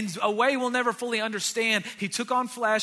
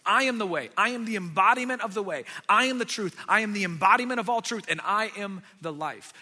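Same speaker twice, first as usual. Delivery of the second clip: proclaiming; 5 dB louder than usual. Acted. Preacher voicing Jesus' claims.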